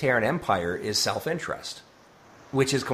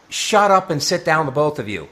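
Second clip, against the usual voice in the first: loud, higher-pitched telling-off; scolding command; 5 semitones higher, 8 dB louder than usual. Acted. Troy to bickering Barclay and Data, scolding command. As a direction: order two squabblers to shut it, loudly.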